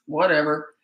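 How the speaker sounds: flat, bored Whatever, brushing it off; dismissive whatever. Shown as a demonstration. Parent shrugging off a child's insult, dismissive. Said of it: "I'd go".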